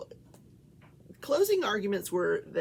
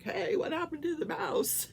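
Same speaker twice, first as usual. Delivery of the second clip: voicing the pet; 7 semitones higher than usual. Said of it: "complains to me, like".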